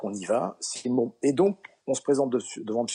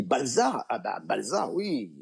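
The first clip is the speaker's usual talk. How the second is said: feigned recognition; slower than usual. Acted. Sketch punchline, feigns recognition.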